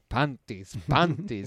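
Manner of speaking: imitated Spanish accent; Ramon Nomar. Star saying it to all the girls, Spanish-accented impression. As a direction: repeat it with open Spanish vowels, "pahn-tees". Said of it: "with that Spanish shit".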